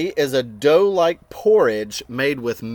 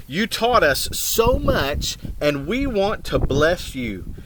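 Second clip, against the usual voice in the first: put-on lively picture-book reading to children; reading aloud to kids, voicing each character; story narration; 3 semitones higher, slower than usual. A narrator's reading. Reading a storybook aloud to children, animated.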